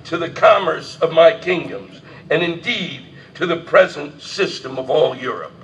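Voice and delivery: mock royal address, read grandly; formal speech reading. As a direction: declaim it like a king before Parliament. Reading King George III speech aloud.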